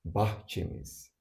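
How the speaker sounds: Bahçemiz said slowly, syllable by syllable; slow it down so learners can copy Bahçemiz; slow model repeat. Shown as a demonstration. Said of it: "Another example".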